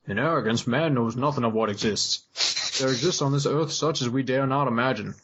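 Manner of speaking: slow, drawn-out Southern reading; mock Southern voiceover; Southern accent. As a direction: read it like a Southern narrator. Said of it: "I don't know why I'm doing Southern".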